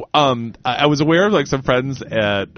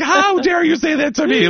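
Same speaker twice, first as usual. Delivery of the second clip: high, scandalized how dare you; mock indignant lady. Quoting the faculty woman's reply, high mock indignation. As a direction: ham up a prim woman's outrage. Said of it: "Like this or whatever".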